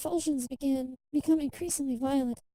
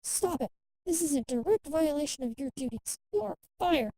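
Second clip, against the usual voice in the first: raised, angry scolding; angry doctor; 2 semitones higher than usual. Acted. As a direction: dismiss him in a fury, rising to the end. Fuming doctor fires Kai.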